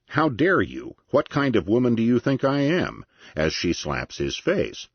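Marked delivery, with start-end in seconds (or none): 0.1-3.0 high-pitched indignant retort; affronted woman's protest, voice raised in pitch. A narrator's reading. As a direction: read it with rising indignation, well above normal pitch. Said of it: "The woman indignantly replies".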